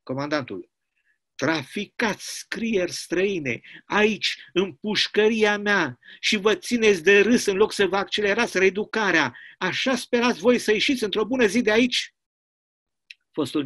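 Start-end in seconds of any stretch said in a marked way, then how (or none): 1.3-12.1 a harsher, raised prison commandant voice; a hint of a bullying commandant; stern commandant. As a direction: accuse him like a prison boss.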